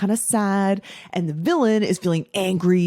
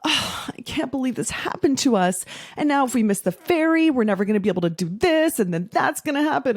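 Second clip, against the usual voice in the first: higher, panicky whining about missing the ferry; mock victim wail; 5 semitones higher than usual. Wife stuck by the roadside, imitating her own whiny panic. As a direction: play up the helpless fretting, half in jest. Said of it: "then I would be like".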